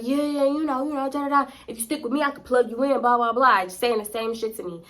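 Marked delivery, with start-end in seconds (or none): 0.0-3.6 lightly voiced smooth-talking guy; hint of a slick club promoter; smooth talker. Imitating Rodney's smooth pitch.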